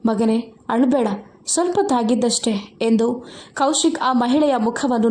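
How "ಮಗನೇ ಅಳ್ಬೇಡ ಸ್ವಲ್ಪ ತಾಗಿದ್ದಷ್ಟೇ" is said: a touch of tender mother soothing her son; mild loving reassurance; lovingly. Acted. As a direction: gently comfort the hurt child, understated. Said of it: "ಪ್ರೀತಿಯಿಂದ ಹೇಳಿದಳು".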